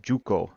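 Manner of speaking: "Juko" with a J sound at the start; mispronounced name. Retold or imitated. Clown complaining about his old band, mispronounced name. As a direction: say "Juko", a mangled version of Yucko. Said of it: "none of 'em could say my damn name right".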